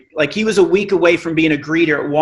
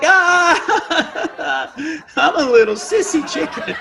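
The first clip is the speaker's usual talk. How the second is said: much higher, laughing squeak; mock sissy chicken; 10 semitones higher, much slower than usual. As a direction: play the beaten little chicken. Mocking himself after losing.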